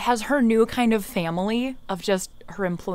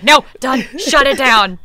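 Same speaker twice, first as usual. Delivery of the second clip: mock meltdown; 3 semitones higher, 9 dB louder than usual. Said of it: "Just like".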